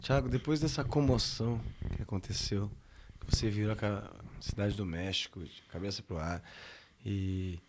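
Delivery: reporter voice. Acted. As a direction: ask gravely like a TV reporter. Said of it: "cara da Globo pergunta".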